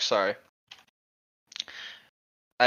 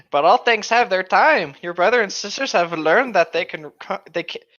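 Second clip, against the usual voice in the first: Aslan voice; 5 semitones higher than usual. Acted. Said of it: "Aslan replies".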